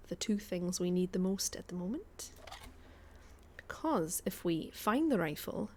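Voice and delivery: light put-on Scottish accent while gaming; a hint of Scottish brogue, casual chat. Streamer chatting to her stream viewers in a light Scottish accent. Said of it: "we're going to do a little bit of Scottish".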